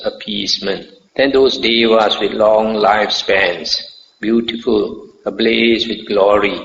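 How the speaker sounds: measured, formal recitation of a sutta; solemn teaching text read out, each phrase set apart; scripture reading. A narrator's reading. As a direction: read sacred text aloud in even, deliberate phrases. Reads a sutta aloud.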